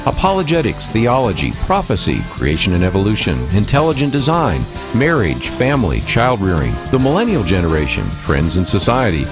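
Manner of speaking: upbeat radio show intro; radio announcer. Acted. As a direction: read it like a talk-show promo. Radio host show intro over music.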